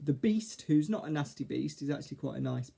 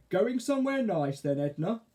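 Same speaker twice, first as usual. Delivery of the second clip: higher, friendly question; pleasant; 6 semitones higher, 4 dB louder than usual. A narrator's reading. Caterpillar chats with witch, pleasantly. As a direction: ask politely, with a lift in pitch. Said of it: "said Arthur pleasantly".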